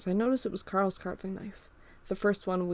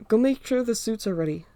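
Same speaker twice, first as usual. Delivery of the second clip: louder call to a friend in another room; yell; 3 semitones higher, 5 dB louder than usual. Acted. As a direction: call it out across the house. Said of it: "I yell".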